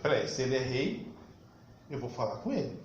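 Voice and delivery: low, hushed aside, mildly fearful; acted wary fear. Pilate realising Jesus may be king, mildly fearful hushed voice. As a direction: drop low and soft, as if quietly alarmed. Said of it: "aí Pilatos ficou com medo".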